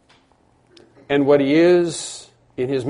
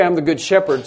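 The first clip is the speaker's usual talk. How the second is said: "I'm the good shepherd" with the weight on "shepherd"; stress on shepherd; 4 semitones higher than usual. Shown as a demonstration. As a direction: let "shepherd" carry the line. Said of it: "the emphasis is upon the shepherd".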